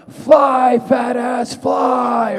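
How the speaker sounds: high, loud yelled taunt; movie line shout. Acted. Playing Jay in the film scene, high taunting yell. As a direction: bellow it across the set. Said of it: "this scene where I'm like".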